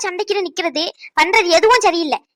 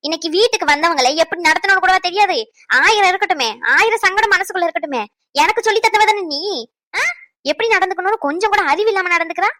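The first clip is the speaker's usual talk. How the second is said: raised, higher-pitched angry scolding; 4 semitones higher than usual. Acted. Mother scolding her daughter for rudeness to a guest, angrily. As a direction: tear into her for how she treated the guests.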